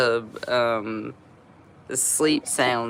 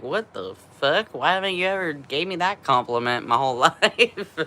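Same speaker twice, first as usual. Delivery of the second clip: laughing, higher and louder disbelief; amused disbelief; 4 semitones higher, 5 dB louder than usual. Retold or imitated. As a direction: retell your own shock with a laugh breaking in. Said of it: "I was like".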